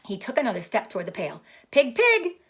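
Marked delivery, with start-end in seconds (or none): 1.7-2.4 kind voice. Acted. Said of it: "in a kind voice".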